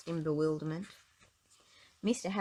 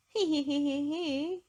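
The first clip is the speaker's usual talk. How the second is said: high, louder joyless he he he; miserable laugh; 9 semitones higher, 5 dB louder than usual. Acted. Miss Giggles trying again for Mister Happy, miserable he he. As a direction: squeeze out a miserable titter. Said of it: "she said miserably".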